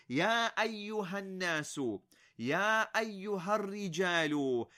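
"يا أيها" stressed like a summons; calling out. Shown as a demonstration. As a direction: call each group with a firm "يا أيها". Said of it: "add in the middle there, أيها".

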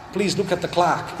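"clock" said the American way, as "clahk"; American accent. Shown as a demonstration. Showing how Americans say "look at the clock", American accent. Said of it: "in American accent, if you say Clark".

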